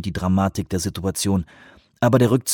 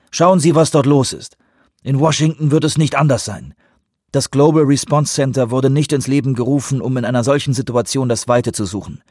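a firm, raised-pitch rebuttal; lightly voiced stubborn official; defiant counterterrorism director; 4 semitones higher, 4 dB louder than usual. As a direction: argue back at your boss insistently.

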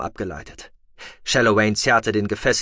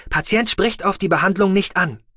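a higher, mechanical machine voice; rasping med box; 9 semitones higher, 3 dB louder than usual. A narrator's reading. The medical box reporting vital signs in a mechanical rasp. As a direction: sound like a rattling medical device reading out.

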